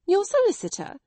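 high, loud astonished question; amazed. A narrator's reading. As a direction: she can't believe her ears. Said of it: "in amazement".

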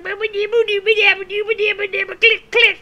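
short mocking click sounds; mock click noise. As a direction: click the tongue twice like a parody. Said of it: "You probably say, like".

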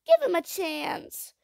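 put-on high, loud, pleading child voice; high-pitched urgent plea; begging child. A narrator's reading. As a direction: beg desperately like a little girl.

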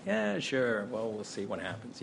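airy non-promise, letting it drop away; noncommittal Hollywood brush-off. Retold or imitated. Director politely putting off a keen actor, noncommittal. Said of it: "that kind of Hollywood thing".

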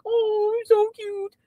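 high, mocking coo copying her pet voice; imitating my cat voice. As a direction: tease her by parroting the cat-talk. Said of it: "he was, like, imitating me".

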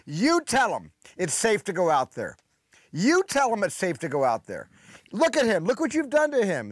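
high-pitched mock New York scolding; retold angry screaming. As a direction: imitate an irate New York mother yelling. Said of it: "began screaming at me with a very thick New York accent".

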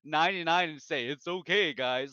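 loud, laughing outraged retort; upset fan rant. Retold or imitated. Fans rant at Santorin's excuse, loud and laughing. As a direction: let the outrage burst out, half laughing. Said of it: "everybody was rightfully very upset".

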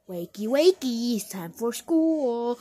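slow sing-song wake-up call; mock mom. Mom waking her child for school, slow and sing-song. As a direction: drag it out like a mom waking a kid. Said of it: "your mama's like".

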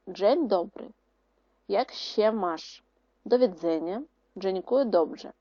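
Polish greetings said lightly; Polish phrases. Shown as a demonstration. Teacher reading Polish greetings to pupils, light Polish. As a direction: read them as Polish phrases. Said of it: "Ганчик вивчив кілька польських висловів".

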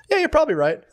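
mocking agreement. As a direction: ridicule a spineless yes-man. Mocking student agreeing with emotions.

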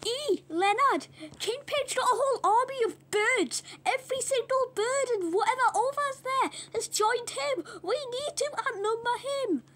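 slightly high little pig voice; lightly voiced small pig. Small pig warns Leonard about a bird army, lightly voiced high.

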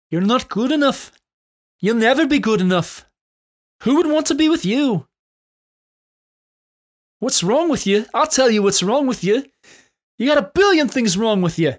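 high, loud taunting leprechaun; squeaky nasty inner critic voice. Pretend. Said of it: "maybe we should use the leprechaun voice".

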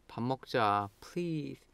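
soft, lingering plea; pleading. Shown as a demonstration. Begging a friend to eat together, pleading. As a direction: beg in a small, quiet voice. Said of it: "Now you are pleading".

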